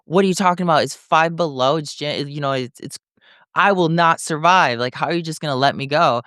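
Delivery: high, pleading mock panic; half-acted alarm at being thrown out; retold panic. Panicked retold plea to guards.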